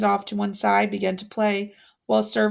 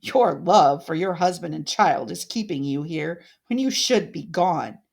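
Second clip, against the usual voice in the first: mock pity; 4 semitones lower than usual.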